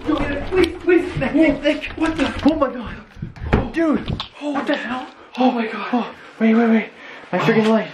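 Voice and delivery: high, loud frantic shouts; panicked yelling. Real, not acted. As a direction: scream it in real panic. Panicked yelling after being grabbed.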